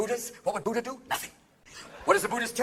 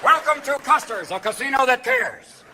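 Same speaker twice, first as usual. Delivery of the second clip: slow ad voice; 4 semitones higher, 5 dB louder, slower than usual. Acted. Casino ad voice.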